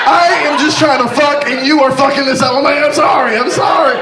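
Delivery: hammed-up bedroom row; mock heated argument. Quarrel during sex retold.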